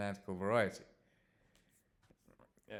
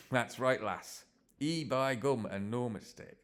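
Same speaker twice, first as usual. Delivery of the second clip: lightly put-on Yorkshire accent, slow on the catchphrase; 4 semitones higher, slower than usual. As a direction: play a stock Yorkshireman with a broad catchphrase. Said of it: "I'm not gonna do the accent except there".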